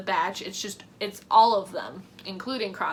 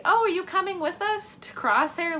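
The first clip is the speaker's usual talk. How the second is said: mock Wrecker; 9 semitones higher than usual. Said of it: "Wrecker has the audacity to be like".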